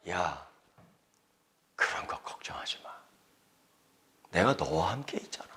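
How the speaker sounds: soft, hushed comfort; tender whisper. Acted. God comforting a lonely believer, hushed and tender. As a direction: whisper reassurance close by.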